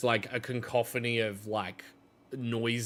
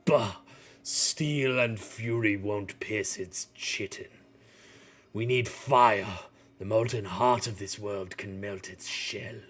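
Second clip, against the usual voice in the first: Ignis, gruff smith. Acted. Ignis cuts in scoffing, asking for the hammer, lightly voiced. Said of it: "kind of juts in and goes".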